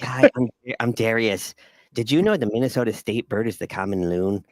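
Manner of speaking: a lightly put-on goofy photographer voice; a hint of a dorky character voice; imitating Darius. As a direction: play the awkward fake photographer, cheerful. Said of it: "he talks like this".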